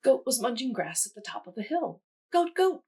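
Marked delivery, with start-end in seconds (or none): 2.3-2.8 high, loud call; crying out. A narrator's reading. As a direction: call out in alarm. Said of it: "cried Hen".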